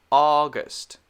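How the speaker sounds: "August" whispered, unvoiced, no tone. Shown as a demonstration. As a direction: breathe "August" without voice.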